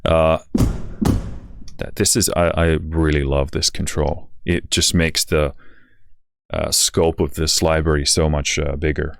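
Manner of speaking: tired, slightly slurred words; slurred speech. Real, not acted. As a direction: let the words blur from exhaustion. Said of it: "Sorry about my slurring speech today".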